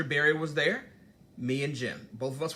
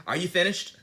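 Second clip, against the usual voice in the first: higher, pointed and curt "Are you finished?"; mock dismissive jab; 4 semitones higher, 5 dB louder than usual. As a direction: throw it out like a cutting put-down. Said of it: "Don't do that".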